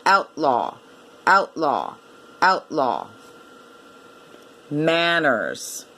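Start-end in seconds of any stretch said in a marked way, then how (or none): 0.1-3.1 OUTLAW in two beats, OUT-LAW; small break between "out" and "law" in OUTLAW; by syllables. Shown as a demonstration. Teacher showing two syllables, OUTLAW as OUT-LAW. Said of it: "two syllables".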